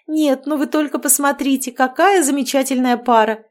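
excited exclaim. Acted. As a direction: gush over the couple. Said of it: "воскликнула леди Марьяна". (восторженно восклицает)

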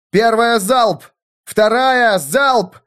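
high, slow barked orders; commander's shout. A narrator's reading. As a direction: call volleys like a field officer. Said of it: "кричал Эрвин".

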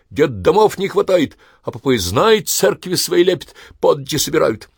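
high, loud tirade against priests; ranting. Acted. Son rants about priests to family, high loud tirade.

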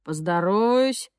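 slow, sneering street thug; menacing thug voice. Acted. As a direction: drawl it like a yard bully picking a fight. Thug Zhokh taunting.

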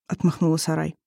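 ordinary delivery, nothing marked

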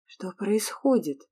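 worried voiced question; anxious. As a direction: ask it with alarm. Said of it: "с тревогой спросила Лея".

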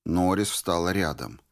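usual speaking voice

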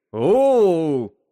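high, loud whimpering sob; a startled animal sob at the word dissect. Acted. The wub sobs at the captain's plan to cut him open, whimpering sob. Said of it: "всхлипнул Уаб".

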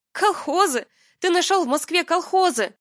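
very high, loud incredulous cry; hysterical disbelief. Acted. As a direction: shriek in disbelief. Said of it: "меня душил теперь истерический смех".

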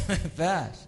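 laughing as you say it; amused refusal. Real, not acted. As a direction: chuckle into the words. Chuckles at the brother's question.

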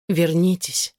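usual speaking voice

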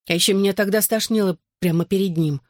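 plain reading voice

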